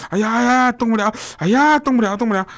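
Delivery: high-pitched mock groaning of an old man; hammed-up helpless moaning. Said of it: "在那哎呦哎呦的叫".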